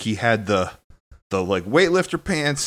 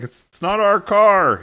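mock pleading; 9 semitones higher, 4 dB louder than usual. Retold plea to trolley driver.

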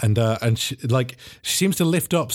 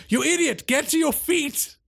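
high angry shout; 12 semitones higher than usual. Acted. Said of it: "He's like".

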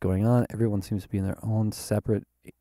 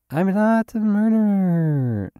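indignant protest; 10 semitones higher, 4 dB louder than usual. Pretend. Protesting strangers' fears.

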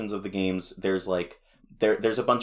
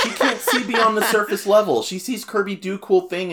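high, giggling explanation; laughing; 12 semitones higher, 6 dB louder than usual. Real, not acted. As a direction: grin and laugh through it.

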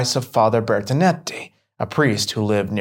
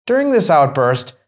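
usual speaking voice

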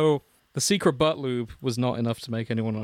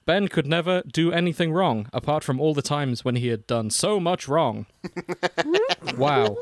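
dramatic fanfic narrator; 3 dB louder than usual. Acted. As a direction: read it like an overwrought internet narrator. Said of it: "the narrator I did in Full Life Consequences voice".

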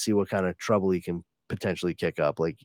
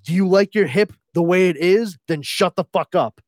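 much higher and louder, fast frantic warning voice; angry hushed warning; 8 semitones higher, 7 dB louder than usual. Retold or imitated. The Fuck warning Wesley about the villain, frantic high voice. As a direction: snap at him to shut up, then warn fast.

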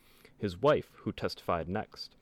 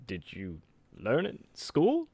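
put-on slow old-timey lawyer; 2 semitones higher than usual. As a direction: drag it out like an old-time prosecutor. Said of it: "the prosecutor in an old-timey voice".

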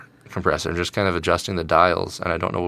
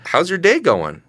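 higher, lightly chirpy host question; mock DJ question; 10 semitones higher, 4 dB louder than usual. Showing the radio rule to a friend, mild chirpy DJ. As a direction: toss it out like a lightly cheery DJ. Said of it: "instead of saying".

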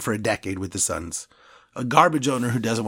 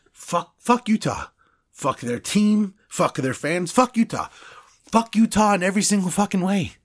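snarling punk; 7 semitones higher than usual. Acted. Escalating fan curse rant.

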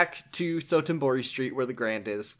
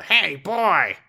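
calling out; 4 semitones higher, 6 dB louder than usual. Retold or imitated. Kameki calling out.

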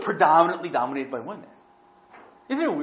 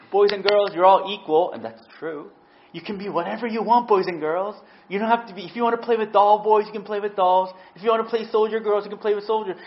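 a hint of a cheery teacher, higher; lightly voiced elementary teacher; sing-song teacher; 5 semitones higher, 3 dB louder than usual. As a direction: talk down sweetly to small kids. Mimicking teachers to pupils.

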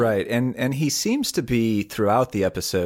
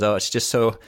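imitated love confession; 3 semitones higher than usual. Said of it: "confesses their love and says".

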